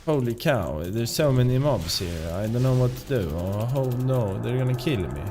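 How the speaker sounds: light Swedish lilt on English; Swedish-accented English. Shown as a demonstration. Showing a Swede pleading as mobs close in, lightly Swedish-accented. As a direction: demonstrate a Swede talking English, tonal accent. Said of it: "Swedes talking English".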